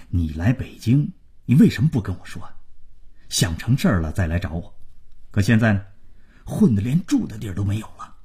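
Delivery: quiet, quick fatherly scolding; grumbling father. Acted. Father reproaching son who didn't come to him, grumbling.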